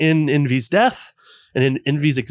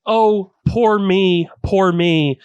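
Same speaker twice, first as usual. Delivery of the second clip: mock self-pity; 3 semitones higher, slower than usual. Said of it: "It's almost, it's like".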